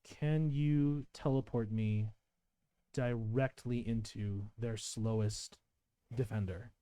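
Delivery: soft, drawn-out request; slow quiet in-character line. Acted. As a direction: ask it slowly and softly. Acted quote of Johanna.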